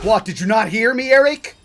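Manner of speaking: real furious outburst at a troll; angry shout. Real, not acted. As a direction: voice cracking up high on the name. Furious rant at chat user.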